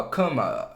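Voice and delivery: cama with a relaxed final a; final schwa. Shown as a demonstration. Teacher showing the Portuguese cama final vowel. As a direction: let the end of cama fade to a schwa. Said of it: "esse som de a do final".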